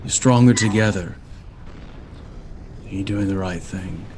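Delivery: measured, unhurried scene-setting; game master narration. A narrator's reading. Game master describing the omen to the party, slow and grand. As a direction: paint the omen slowly for the players.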